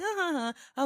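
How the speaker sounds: imitated nervous little laugh; mock giggle, starting high and dropping. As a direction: act out an awkward, uneasy giggle. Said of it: "I nervously giggle".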